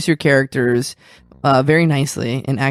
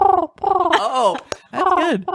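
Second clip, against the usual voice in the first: laughing; much slower than usual. Real, not acted. Laughing at the bird caw.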